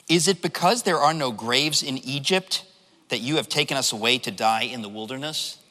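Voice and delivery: understated sarcastic scripture reading; dry sarcasm. Retold or imitated. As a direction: pose it as a mock-innocent question.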